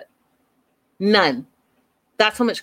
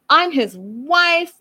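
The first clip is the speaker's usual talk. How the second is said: higher, slow, drawn-out indignant mock; slow, raised-pitch parody of a huffy wife; 8 semitones higher, much slower than usual. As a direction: stretch it out like a wounded wife. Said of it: "she's like".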